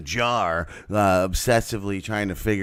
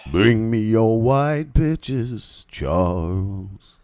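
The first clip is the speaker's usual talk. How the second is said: put-on character voice; 3 dB louder, much slower than usual. That's not a good one.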